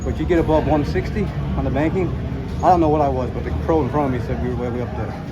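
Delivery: winded, panting between phrases; out of breath. Real, not acted. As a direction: talk while catching your breath. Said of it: "I'm out of breath".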